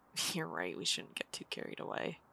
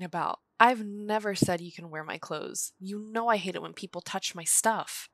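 raised, accusing voice, fed up; angry confrontation; 5 dB louder than usual. Acted. To the friend who took her clothes, angry and loud. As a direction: scold her for stealing clothes.

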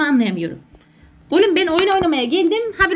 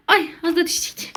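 scared cry. Real, not acted. Nearly falls in game.

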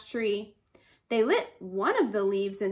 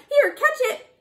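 squeaky toss; 12 semitones higher, 6 dB louder than usual. A narrator's reading. Bush rat tosses yam.

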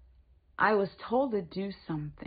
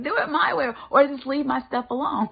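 retold demand; 7 semitones higher, 10 dB louder than usual. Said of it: "I'm like".

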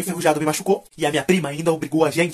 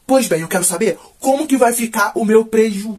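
demanding neighbour; 4 semitones higher, 4 dB louder, slower than usual. Retold or imitated. Angry neighbour demanding payment.

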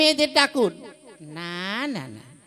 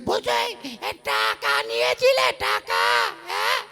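high shout; 11 semitones higher than usual. Acted. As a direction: yell the question at him. Shouting at mute man. (উঁচু গলায় চিৎকার করে প্রশ্ন)

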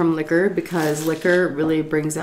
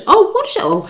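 squeaky high mock outrage; drunken self ready to fight; drunk bravado; faster than usual. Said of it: "Superman mentality".

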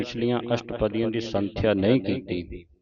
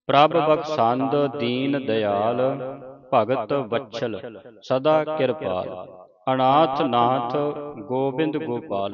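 scripture recitation. Acted. Teacher reciting Gurbani for students to follow, measured recitation. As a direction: recite each phrase clearly, pausing between phrases.

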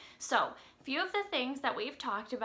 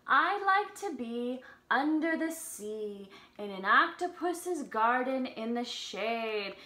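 slow, sing-song storybook reading; reading to children; slower than usual. Acted. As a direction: read the lyrics gently to little kids. Reads song lyrics to children.

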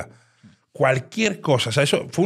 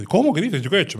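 high, loud feigned surprise; imitating a dealer's fake shock; mock indignant protest; 7 semitones higher, 4 dB louder, faster than usual. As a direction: play the innocent, outraged.

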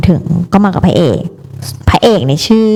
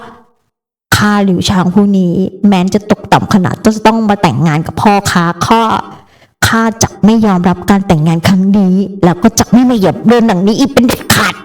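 haughty proclamation; 2 semitones higher than usual. Retold or imitated. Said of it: "มาถึงก็ประกาศลั่นห้องว่า".

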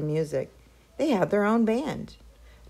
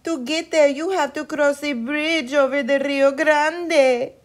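worried mother; 9 semitones higher, 7 dB louder than usual. A narrator's reading. Mother warns her sons about the bridge, high anxious plea. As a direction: warn them like a frightened mama. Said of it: "their mother pleaded".

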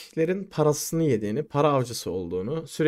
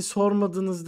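lightly voiced young woman, higher pitch; imitated girlfriend; 6 semitones higher than usual. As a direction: quote the girlfriend in a raised voice. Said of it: "Kız geldi". (kız arkadaşı taklit eden ince ses)

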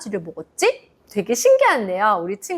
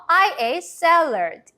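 very slow, clearly spaced sentence; slow model sentence; 5 semitones higher, much slower than usual. Shown as a demonstration. Teacher modelling the sentence for kids to repeat aloud. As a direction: say it slowly for repeating. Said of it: "큰 소리로 따라해 볼까요".

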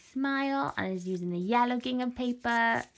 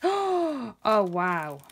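surprised gasp oh; 4 dB louder than usual. Real, not acted. Gasp at new item.

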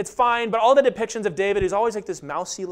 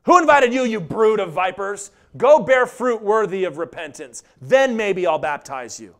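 bold rebuke; 3 dB louder than usual. Retold or imitated. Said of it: "What did John the Baptist say".

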